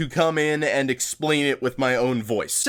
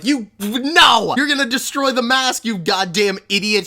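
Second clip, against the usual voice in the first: mock outraged yell; 5 semitones higher than usual. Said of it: "and he's like".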